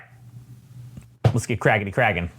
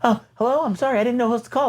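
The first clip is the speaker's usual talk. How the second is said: caller voice; 11 semitones higher, faster than usual. Retold or imitated. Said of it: "people talking into their phones".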